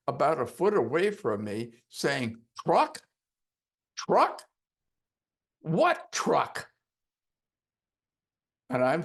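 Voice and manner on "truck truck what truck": high, loud demanding questions; angry shout. Retold or imitated. Angry weightlifter shouting at the hypnotist, high and loud. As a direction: confront him, pitch rising high and loud.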